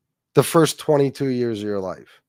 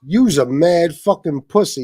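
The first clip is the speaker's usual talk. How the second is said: mocking a tough guy; 3 semitones higher, 5 dB louder than usual. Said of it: "He's trying to act like Nick".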